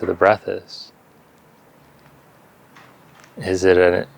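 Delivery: calm meditation guidance with long silences between phrases; unhurried yoga teacher leading breath awareness; guided meditation. Real, not acted. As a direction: guide them gently into stillness, leaving space after each phrase.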